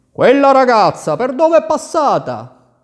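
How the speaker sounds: loud, high, demanding; an angry young prince interrogating the gardener. A narrator's reading. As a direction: prince confronts gardener about the thief.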